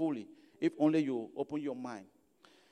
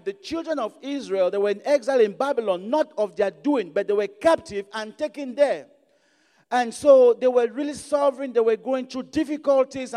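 louder, raised-pitch sermon delivery; preaching; 6 semitones higher, 9 dB louder than usual. Real, not acted. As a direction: preach it out with emphatic, driving phrases. Preaching on Ezekiel and the exile.

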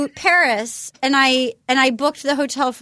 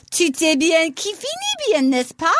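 foreign accent in French; 2 semitones higher than usual. Shown as a demonstration. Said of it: "I wanted to try to speak French".

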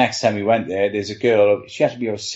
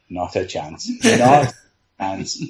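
laughing through no chance; laughing refusal; slower than usual. Retold or imitated. Backup goalie to himself about going in, laughing no. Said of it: "And I'm like".

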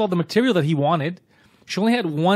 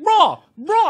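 loud mock call; 13 semitones higher, 5 dB louder than usual. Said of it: "And he's like".

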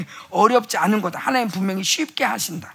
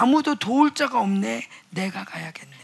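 gentle resolve; 2 semitones lower, 6 dB quieter than usual. Acted. Voicing the Lord a third time.

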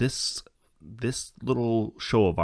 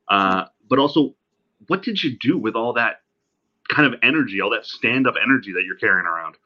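distant laptop mic sound; tinny, far-off recording; from another room; 7 dB louder than usual. Real, not acted. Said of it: "me sounding like I'm talking from the other room".

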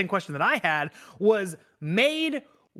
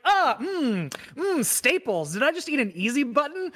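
mock taster; 3 semitones higher than usual. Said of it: "it's like".

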